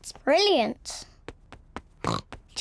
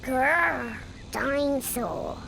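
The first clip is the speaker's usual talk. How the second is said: playful dinosaur growl; 3 semitones lower, slower than usual. Acted. Toddler roars with toy dinosaur.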